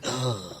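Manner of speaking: low, soft groan; mock dismayed groan. Guesser corrected on a name, quiet dismayed groan. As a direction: let out a small deflated ugh.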